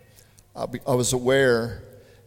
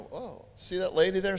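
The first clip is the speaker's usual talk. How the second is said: surprised echo; 4 semitones higher than usual. Retold or imitated. Retelling how he answered the Spirit, mildly startled. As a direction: echo it back in mild surprise. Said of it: "And I'm going".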